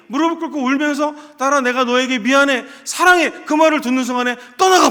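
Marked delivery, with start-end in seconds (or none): 1.4-3.3 loud, rising plea to the daughter; crying apology. Retold or imitated. Father kneeling before his daughter, crying out loud, higher. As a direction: pour out sorry and love through tears. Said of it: "엉엉 울면서".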